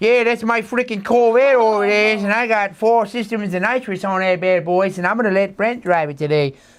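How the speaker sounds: put-on Bronx accent with gangster edge. Imitating how a person from the Bronx talks: imitating Louis's Bronx accent. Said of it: "he talks like".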